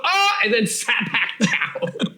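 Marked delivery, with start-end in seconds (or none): 0.0-0.4 little acted-out "ah"; sound effect. Re-enacting standing up in Starbucks, little sound effect. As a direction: drop in a small sound effect. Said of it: "I love your little sound effects".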